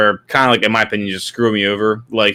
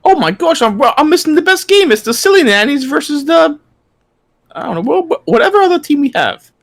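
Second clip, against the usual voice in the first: put-on high, hammy British accent; mock British accent. Cohost joining the joke, in a high mock British accent. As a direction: play a jolly cartoon Brit.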